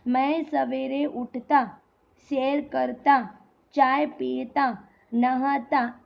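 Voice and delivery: spaced list, pausing after "उठता", "करता" and "पीता"; measured list with a break after each "ता" ending; comma pauses. Shown as a demonstration. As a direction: stop briefly after each action such as "सैर करता". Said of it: "इन सब के बीच में भी क्या आएगा".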